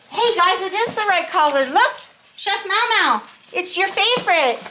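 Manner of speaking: high, delighted calling out; real high-pitched excitement; excited. Real, not acted. Excitedly shows gift to Chef Mau Mau.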